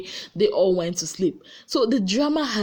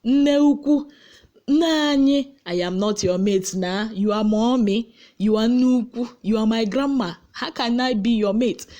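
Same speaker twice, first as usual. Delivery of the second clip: overly respectful sarcasm; mock deferential sarcasm. Answering an older housemate with mocking deference. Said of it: "I would just be like".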